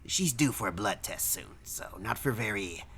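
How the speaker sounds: lightly voiced reluctant clerk; hedge, trailing into a breath on the last word; grudging clerk. Clerk allowing a short visit, mildly grudging.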